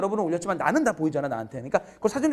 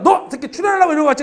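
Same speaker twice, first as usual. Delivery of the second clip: higher and louder mock-accusing call-out; teasing shout; 10 semitones higher, 11 dB louder than usual. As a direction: catch him out, loud and playful. Teacher teasing student in class.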